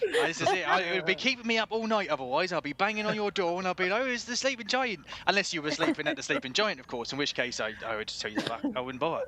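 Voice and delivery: loud, high West Country rambling; excitable West Country shopkeeper running on; hammed-up West Country, tickled by the memory; West Country accent. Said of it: "best West Country accent this is".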